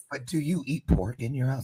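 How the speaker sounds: soft, hushed, half-whispered voice. Asking the pig owner about eating pork, near the pigs: half-whispering. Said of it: "I'm whispering in case they can hear me".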